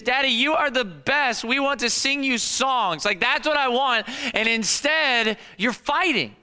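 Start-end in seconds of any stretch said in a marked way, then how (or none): 0.0-3.1 put-on grateful kids. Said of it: "what I want is".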